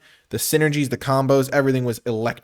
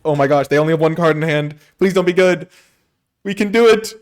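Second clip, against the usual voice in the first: tense excitement; 6 semitones higher, 7 dB louder than usual. Real, not acted. Tense final turn, hoping.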